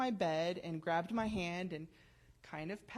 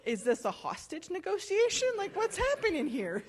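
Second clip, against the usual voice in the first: high, loud comic disbelief; hammed-up incredulous outcry; mock alarm; 10 semitones higher, 6 dB louder than usual. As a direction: play up the bewildered panic, voice pitched way up. Mock alarm at daughter whisked away.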